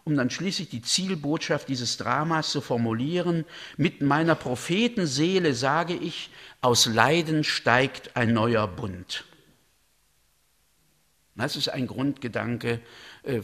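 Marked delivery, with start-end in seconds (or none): 3.8-9.2 very slow, weighty declamation; solemn proclamation. Acted. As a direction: let each word fall like a prophecy. Reads the key prophecy. (Elihu verkündet feierlich die Kernbotschaft, sehr langsam)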